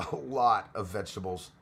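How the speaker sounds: amused repeat with a laugh; laughing echo. Real, not acted. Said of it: "echoes own words laughing".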